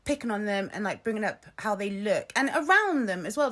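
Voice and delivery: indignant retold telling-off; pissed off. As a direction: retell your outrage, protective of your kids. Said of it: "she pissed me off so much".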